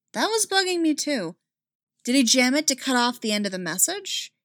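high, eager questions; excited. Acted. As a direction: jump in eagerly. Ren eagerly joins the questioning.

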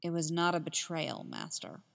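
lightly voiced Anakin, quietly composed; calm. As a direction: Anakin calmly denying betrayal to his master, understated calm. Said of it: "Anakin spoke in a calm voice".

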